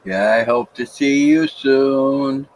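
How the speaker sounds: while sipping a drink. Real, not acted. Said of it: "I'm drinking my coffee".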